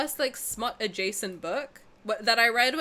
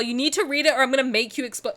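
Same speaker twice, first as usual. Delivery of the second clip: louder, pushy threat; mock threat; 3 semitones higher, 7 dB louder, faster than usual. Schoolgirl threatening a small kid over a book, loud mock menace. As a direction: threaten like a playground bully. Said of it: "She literally threatened violence".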